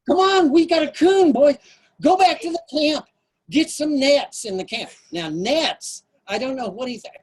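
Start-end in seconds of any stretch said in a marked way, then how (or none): 0.1-4.9 high, loud, urgent commands; excited order. Retold or imitated. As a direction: send the boys running. Scoutmaster ordering boys for nets.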